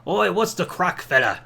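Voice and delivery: lightly attempted Irish accent; a hint of mock Irish brogue; Mick Foley Irish accent. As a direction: imitate someone trying on an Irish accent. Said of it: "Mick Foley's trying an Irish accent".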